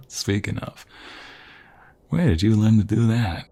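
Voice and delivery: chuckling through the words; amused laugh then a playful question. Acted. Laughs at the right hook.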